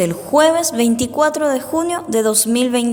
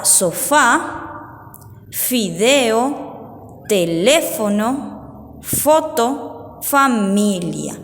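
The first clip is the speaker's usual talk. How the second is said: slow dictation; much slower than usual. Shown as a demonstration. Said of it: "las palabras que vamos a leer".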